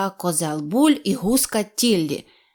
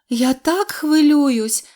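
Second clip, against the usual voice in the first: worried mother duck; 6 semitones higher, 3 dB louder, much slower than usual. A narrator's reading. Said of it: "заговорила мама качка".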